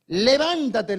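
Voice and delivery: loud, emphatic order to rise; acted angel's command. Preacher as the angel rousing Agar, emphatic command. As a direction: lightly play an angel commanding. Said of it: "le dijo el ángel de Jehová a Agar".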